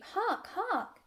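high, repeated bleating cry; interrupting sheep. A narrator's reading. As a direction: bleat each word as a summons. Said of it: "interrupted the first sheep".

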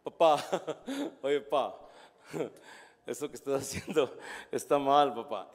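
a light laughing mock correction; mocking, laughing son. Son mocking his dad's work, mild laughing tone. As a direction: laugh at dad while correcting him. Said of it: "te lo dicen como riéndose, como burlándose".

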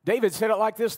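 usual speaking voice

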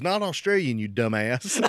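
loud, high imitation of wife; mock the wife's loud scolding. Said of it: "My wife says".

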